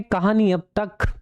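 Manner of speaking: slow dramatic serial narrator; TV serial recap voice. Shown as a demonstration. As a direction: announce it like a soap opera recap. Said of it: "जब नया होता है तो ऐसा होता है, कहानी अब तक".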